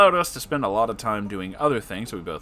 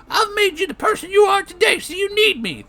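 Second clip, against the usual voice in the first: high shrill mock voice, louder; mocking Jabba; 8 dB louder than usual. Narrator imitating Jabba's manipulative pleading, shrill and high. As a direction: whine it like a manipulative troll. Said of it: "saying things like".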